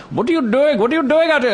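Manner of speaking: high, sharp, startled man's voice; high indignant mock accusation; angry man. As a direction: mimic him demanding what I'm doing. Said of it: "He's like".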